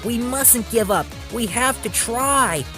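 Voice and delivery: high, urgent rallying call; determined shout. A narrator's reading. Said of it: "shouted Thomas".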